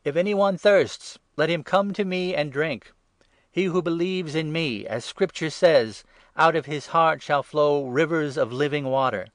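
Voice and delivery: Jesus crying out to the festival crowd, loud and high; exclaiming. A narrator's reading. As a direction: proclaim it out to the whole festival crowd.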